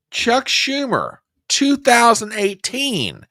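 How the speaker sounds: high, slow showman intro; announcer intro. Real, not acted. Host setting up Schumer's 2018 clip, high and slow showman style. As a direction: present it like a big reveal.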